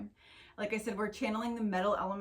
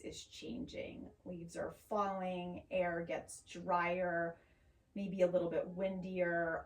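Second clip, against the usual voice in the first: calm, unhurried yoga teacher voice; measured, soothing guidance with long pauses; guided meditation; 4 dB quieter than usual. Acted. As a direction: ease them gently into noticing the breath. Leads a grounding meditation.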